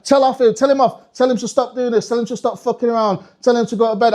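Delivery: lightly voiced parent pressing their demands; nagging parent. Parent begging Santa to tell off the kid, insistent.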